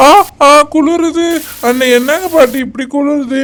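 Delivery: put-on boy shocked by grandma's cold bath; shivering cold yelp. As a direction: gasp as the cold water hits. Cold water poured on boy.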